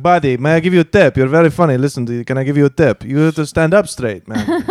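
loosely imitated Irish accent; mock Irish accent, lilting advice. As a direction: have a go at a shaky Irish accent. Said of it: "He's Irish. I don't know what that accent".

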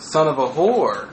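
low, slow, falling delivery; trying out the phrase. Shown as a demonstration. Testing how the insult rings, low and slow. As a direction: roll it out slowly and low, ending down. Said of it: "How does it ring? It doesn't roll good".

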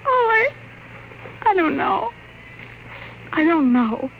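high, trembling uncertainty; distraught. Acted. Wife breaking down to her husband, high and distraught. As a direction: near tears, lost.

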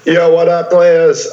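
energetic stream intro. Acted. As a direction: hype host greeting. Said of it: "I did that in my intro voice".

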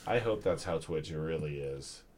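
mock whisper. Mocking the whispering.

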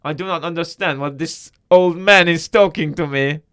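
loud put-on foreign accent; Borat. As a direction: complain in mock broken English. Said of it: "and Borat goes".

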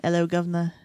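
a light mock Cockney greeting; hint at a Cockney accent. Co-host showing the actor's accent, light Cockney impression. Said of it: "like, a Cockney k-, kinda thing".

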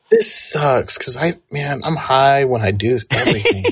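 talking while high; stoned. Real, not acted. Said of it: "You know I'm high right now".

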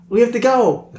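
high-pitched character voice. Acted. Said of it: "He's like".

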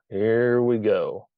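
a long, fed-up "Here we go"; slow exasperated sigh. Retold or imitated. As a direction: drag out "Here we go" with weary scorn. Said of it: "berating her in my mind".

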